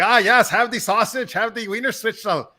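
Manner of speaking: high, hammed-up German monk; German accent. Weird head monk offering sausage, high German accent. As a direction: put on a thick comic German accent. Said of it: "now you're doing German".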